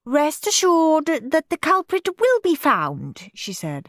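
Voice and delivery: high, slow battle-axe teacher; stern teacher. A narrator's reading. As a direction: declare war on them. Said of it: "Miss Battleaxe squared her shoulders".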